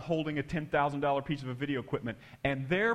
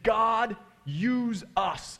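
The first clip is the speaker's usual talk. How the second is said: high, raised prayer cry; imitated fervent plea; 6 semitones higher, 4 dB louder, much slower than usual. Skinny kids with hands raised, imitated fervent plea. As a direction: call up to God as the praying kids.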